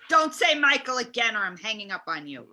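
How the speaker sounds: sharp, irritated threat; angry warning. Acted. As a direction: snap at the caller. Host scolds caller for saying Michael.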